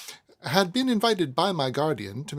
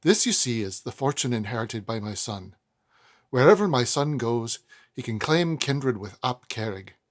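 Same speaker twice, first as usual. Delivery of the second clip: stately triumph with a faint Welsh lilt, louder on key words; attempted Welsh accent; 5 dB louder than usual. Proud mother boasting of her son's lineage, weak Welsh accent. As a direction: boast of the family line in a half-hearted Welsh accent. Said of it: "that's not a Welsh accent now, is it?".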